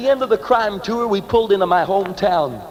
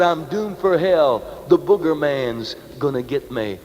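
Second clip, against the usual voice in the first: mock doom; 5 semitones lower, slower than usual. Mocking his own fear.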